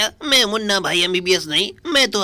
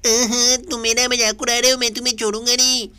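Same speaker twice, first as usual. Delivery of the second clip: lightly raised cartoon kid, hammed-up threat; a cheeky boy pretending to be fierce; mock angry Shinchan; 4 semitones higher than usual. Shinchan threatens his teasing friend, mock angry. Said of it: "आज मैं हूँ गुस्से वाला Shinchan".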